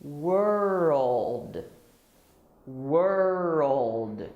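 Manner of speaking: put-on "World" stretched out as WUR-old. Shown as a demonstration. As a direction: draw out "World" with an O before the LD. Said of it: "remember the L sounds like".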